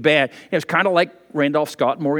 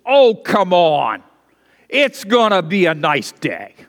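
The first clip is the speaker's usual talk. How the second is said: laid-back cowboy; 4 dB louder, slower than usual. Retold or imitated. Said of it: "and he says".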